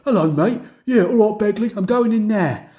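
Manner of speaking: mock half-hearted London voice acting; phone in a London "mate" voice; half-assed London accent. Game voice actor greeting a teammate, half-assed London accent. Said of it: "some of them would just feel half-assed".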